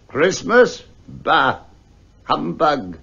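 put-on a scornful old miser scoffing; grumpy old Scrooge. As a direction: dismiss the greeting with contempt. Scrooge answers his nephew.

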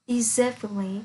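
"deservedly" with -id- as its own syllable; four-syllable "deservedly", di-ZUR-vid-lee. Shown as a demonstration. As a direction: sound out the ED inside "deservedly". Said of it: "trạng từ cũng có tận cùng đọc là it".

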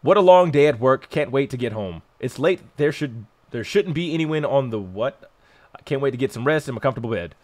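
reading game text. Shown as a demonstration. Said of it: "I'm sorry I read so slow".

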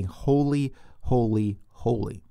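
"holy" three times, each word set apart; deliberate, spaced-out "holy, holy, holy"; emphatic repetition. Retold or imitated. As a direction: give each "holy" its own weight, stepping down in pitch. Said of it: "the seraphim are really emphasizing this".

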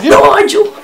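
"Nigel" in a high, loud mimicked accent; imitated accent on Nigel. Reactor contrasting their "Nigel" with hers, imitated accent. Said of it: "and they're like".

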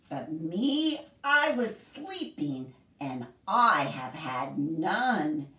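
slow, sing-song picture book reading; storybook voice for a group of kids; reading to children. Acted. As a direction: read it like story time for little ones. Reads picture book aloud to children.

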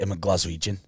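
low Scottish accent. Shown as a demonstration. Host sets a line to copy, Scottish accent. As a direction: demonstrate a Glaswegian Scottish accent. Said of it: "They do Scot-, Scottish accent".

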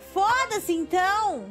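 high, loud frustrated snap; exasperated outburst. Real, not acted. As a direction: blurt it out fed up. Frustrated outburst at game character.

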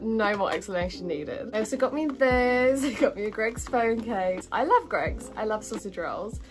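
usual speaking voice

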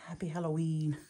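whispered read of the printed words. Real, not acted. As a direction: breathe it out like a secret. Reading the paper's printed words.

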